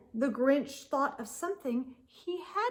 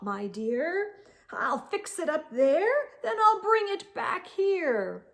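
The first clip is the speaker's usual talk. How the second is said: fake Santa voice. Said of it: "the fake Santa Claus lied".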